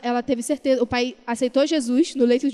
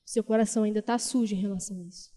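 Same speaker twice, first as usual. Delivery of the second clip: lower, softer, gently correcting voice of God; lightly voiced God, lower and soft; voice of the Lord; 3 semitones lower, 6 dB quieter than usual. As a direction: speak as a lightly voiced loving Lord rebuking his daughter. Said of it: "o Senhor foi confrontando ela".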